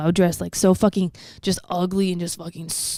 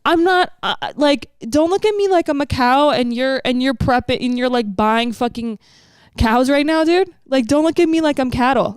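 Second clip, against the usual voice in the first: indignant rant, pitched up; real exasperation, voice raised high; livid; 5 semitones higher than usual. Real, not acted. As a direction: tell off the starers, worked up. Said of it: "It makes me livid".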